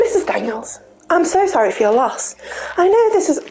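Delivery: lightly voiced police detective; a hint of a formal detective. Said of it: "You're gonna have to do a voice".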